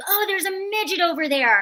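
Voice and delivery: high-pitched, yelled male voice. A guy in college shouts across at the speaker's group of friends; retelling a guy's shout. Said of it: "this guy like shouted, he's like".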